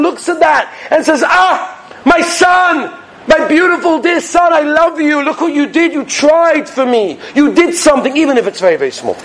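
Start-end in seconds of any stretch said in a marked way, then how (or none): 1.3-9.2 a lightly voiced tender God, a bit higher; loving father. God praising his son for trying, tender. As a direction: say it like a fond father to his child.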